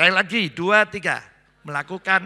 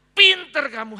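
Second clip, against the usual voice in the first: praising encouragement; 5 semitones higher, 10 dB louder, slower than usual. Shown as a demonstration. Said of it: "harus gitu".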